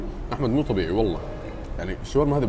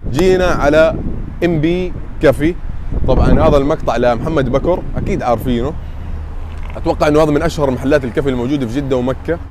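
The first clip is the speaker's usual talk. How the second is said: loud energetic hype; 3 semitones higher, 6 dB louder than usual. Real, not acted. Hyped intro after a heavy meal.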